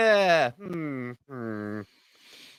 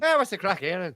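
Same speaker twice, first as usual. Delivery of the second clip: high, jaunty stage Irish; comic Irish greeting; mock Irish accent; 3 semitones higher, faster than usual. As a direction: tease in an Irish lilt. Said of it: "It's all about the crack".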